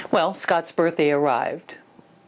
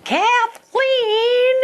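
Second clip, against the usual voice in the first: shrill, much higher scolding shout; a piercing, much louder call of "Kathleen!"; mother's sharp yell; 5 dB louder than usual. Retold or imitated. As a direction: snap her name like a strict mother. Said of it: "I jumped into my mother".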